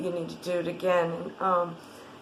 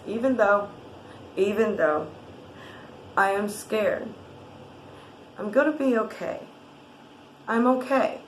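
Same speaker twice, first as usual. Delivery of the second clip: tapping affirmation. Shown as a demonstration. Tapping coach leads listener through the scared affirmation. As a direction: speak it gently as a promise to yourself. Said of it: "and you repeat it twice".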